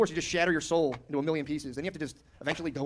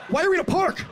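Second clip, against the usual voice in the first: 1 mock exasperation; 8 dB louder than usual. Miserable second engagement shoot.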